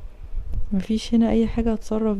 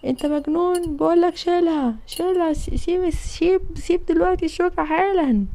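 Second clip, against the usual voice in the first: high insistent scolding; angry father; 5 semitones higher than usual. Acted. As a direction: order him to stop now. (أب بيأمر ابنه بعصبية)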